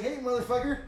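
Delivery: bossy, laughing yell at the cameraman; demanding. Retold or imitated. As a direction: boss them into looking up. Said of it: "I'm all demanding".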